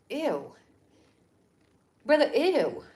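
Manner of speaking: drawn-out disgusted groan of revulsion. Real, not acted. Vlogger reacts to spokesperson, disgusted ew. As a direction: recoil in real disgust. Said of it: "she disgusted me".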